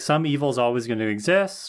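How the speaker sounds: ordinary talk, nothing marked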